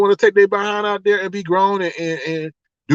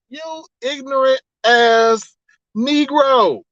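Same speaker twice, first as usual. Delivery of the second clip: slow, higher-pitched mock outrage; retold indignation; 4 semitones higher, much slower than usual. Shopper reacting to a worker in the way, mock indignant. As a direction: draw each word out in retold disgust.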